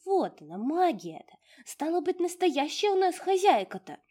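high, loud delighted proclamation; a tiny spirit's loud triumph; triumphant house spirit. Acted. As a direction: crow with pride about the true mistress. Domovushka triumphant.

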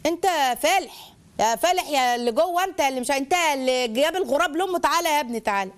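acted parental mockery; sarcasm. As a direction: belittle a child with scornful teasing. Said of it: "اسلوب السخريه".

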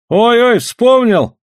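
high cry of sudden recollection; sudden exclamation. A narrator's reading. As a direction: burst out as if it just hit you. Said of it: "вдруг воскликнул Чумбока".

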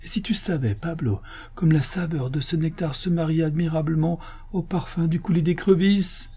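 high-pitched, emotional rapture; tearfully moved. Acted. Master confides his joy to his majordomo, tearfully moved. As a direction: gush with tender wonder, near weeping. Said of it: "s'écria d'une voix attendrie".

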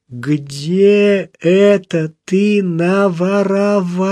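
high, slow tearful question; frightened aunt weeping at her nephew; crying. A narrator's reading. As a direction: ask it through tears, pitch lifted well up. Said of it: "с плачем спросила она".

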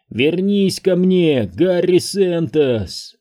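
high, very slow, insistent call; eerie mechanical calling; mechanical falsetto. A narrator's reading. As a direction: drag the name out like a summons. Possessed child calls again.

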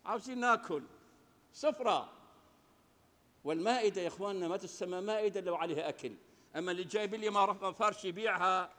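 ordinary talk, nothing marked

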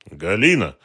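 sharp loud call of her name; exclaiming name. A narrator's reading. Dronго calls out to Galina, loud exclamation. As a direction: cry out her name to jolt her. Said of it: "воскликнул Дронго".

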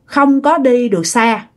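slow, halting imitation of a middle-aged man; slow speech. The man agrees to take the lost rider a bit further, slowly. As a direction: draw it out, pausing between phrases. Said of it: "ổng nói chậm chậm chứ không phải là nói nhanh".

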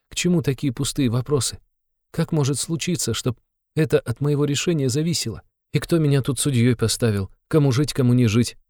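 put-on high, pleading young woman in anguish; Sonya's distressed voice. Sonya refuses to judge who lives, high anguished protest. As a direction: cry out against the question, high and hurt.

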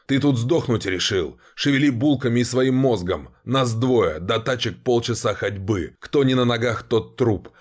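harsh, pressing commander; bully him into moving; threatening growl. Acted. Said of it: "угрожающе зарычал". (угрожающе рычит)

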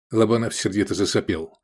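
ordinary delivery, nothing marked

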